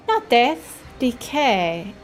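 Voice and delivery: slow, broken-English fungus bookie; mushroom creature voice. Acted. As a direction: drawl it out like a mushroom huckster.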